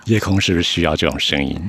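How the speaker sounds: low, lightly sultry radio voice; sultry late-night voice. Pretend.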